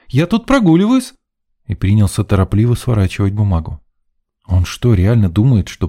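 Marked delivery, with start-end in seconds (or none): 0.1-1.1 high, flustered insistence; exclaiming. A narrator's reading. Caught student protesting to the officer, high flustered exclamation. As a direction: blurt out an innocent excuse. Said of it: "воскликнул парень".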